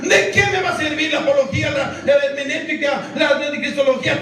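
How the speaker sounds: rising shouted sermon cries; fiery preaching. Acted. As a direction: preach it out to the congregation. Preaching at full force.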